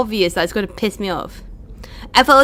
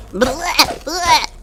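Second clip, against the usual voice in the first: blech noise; 6 semitones higher than usual. Pretend. Spelt noise of disgust.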